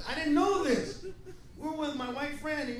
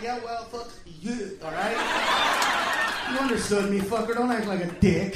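louder retold snap at the waiter; comic angry comeback; mild mock anger at the waiter; mock telling off; 2 semitones lower, 4 dB louder than usual.

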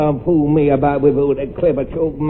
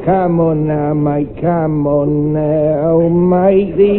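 slow drawn-out cockney conductor; working-class London railwayman; cockney ticket collector; much slower than usual. Acted.

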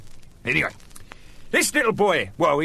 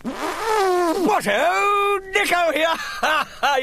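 excited comeback; 3 dB louder, much slower than usual. Acted. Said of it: "bursts back in, announcing himself".

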